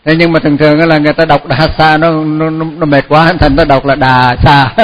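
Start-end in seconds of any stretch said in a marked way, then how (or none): 4.0-4.7 "Đà Sa" with a long open "Đà" and no H; đọc trật Đà Sa. Shown as a demonstration. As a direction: say "Đà Sa", losing the H of "dhassa". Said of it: "Đà Sa là nó trật". (đọc "Đà Sa", kéo âm Đà, mất H)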